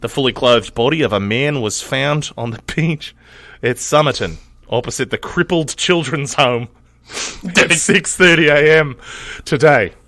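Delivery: Australian accent, loud and over the top; bad Australian accent. Shown as a demonstration. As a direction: read the headline in a terrible Aussie accent. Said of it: "my shittiest Australian accent".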